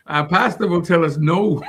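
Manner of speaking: full-voiced answer broken by chuckles; laughing repeat. Real, not acted. Repeating the answer for the co-host, laughing. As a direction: speak up through laughter.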